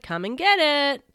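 high, loud come-on; taunting shout. Acted. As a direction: shout it as a dare. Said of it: "I shouted".

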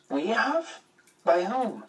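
the narrator pitches up in disbelief; surprised. A narrator's reading. Unexpected news of being expected.

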